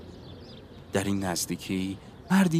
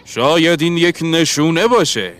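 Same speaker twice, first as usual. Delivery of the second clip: raised, higher musing voice; half-aloud exclamation; 8 semitones higher, 8 dB louder than usual. A narrator's reading. Englishman wonders aloud about a sign, loud high exclamation. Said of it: "با صدای نیمه بلند گفت".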